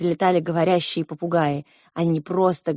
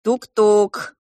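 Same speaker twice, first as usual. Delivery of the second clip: calling out; 3 semitones higher, 6 dB louder, much slower than usual. A narrator's reading. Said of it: "закричал за дверью младший принц".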